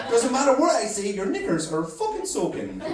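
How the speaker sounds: cocky Irish chat-up; lightly put-on, confident Irish lilt; Irish accent. Irishman chatting up a girl in a bar, Irish accent. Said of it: "it's just the Irish accent".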